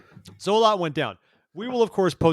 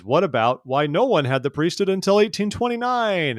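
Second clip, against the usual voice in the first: higher-pitched mimicry of a speaker; mimicking his tone; 6 semitones higher than usual. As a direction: imitate his pointed, raised-pitch questioning. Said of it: "it's toned like this".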